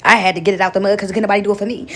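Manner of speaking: fast, mocking a bitter hustler; bitter brag. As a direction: rattle it off like a resentful bragger. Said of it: "with your bitter self".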